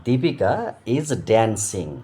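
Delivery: "Deepika is dancing" said very slowly with every syllable drawn out; unhurried teacher dictation; slow model reading. Shown as a demonstration. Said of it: "এখানে বলছি".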